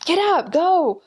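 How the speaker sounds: high, pushy hurry-up; imitated urging. Translating the locals' hurry-up, high urging. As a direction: urge it with a high swoop. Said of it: "saying, "Speed up, go faster".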